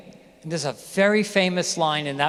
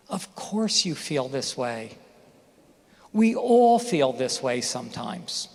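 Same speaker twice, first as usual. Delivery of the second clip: gentle reassurance; 4 semitones lower, slower than usual. Retold or imitated. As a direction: comfort gently. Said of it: "Here's what I wish he had said".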